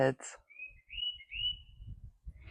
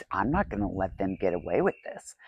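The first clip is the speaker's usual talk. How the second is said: hushed whispered vow; seething inner whisper; intense whisper; 4 semitones lower, 6 dB quieter than usual. Retold or imitated. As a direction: whisper it like a secret threat. Voicing her own angry inner thoughts.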